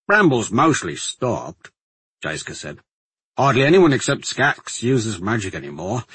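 lightly voiced soldier, insistent; plain-spoken guardsman. Guardsman telling the alchemist the bramble has stopped, emphatic. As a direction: reassure firmly in a guardsman's voice.

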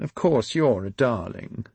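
calm him down, slowly; soothing. Acted. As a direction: Charlotte placating Benjamin, slow and soothing. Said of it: "Charlotte said soothingly".

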